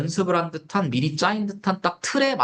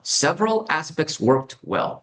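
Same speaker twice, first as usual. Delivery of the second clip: slow model sentence; much slower than usual. Shown as a demonstration. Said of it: "요런 문장 구성이에요".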